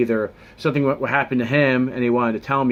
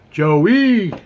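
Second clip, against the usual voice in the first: excited shout; 9 semitones higher, 8 dB louder than usual. Acted. Calling out own name.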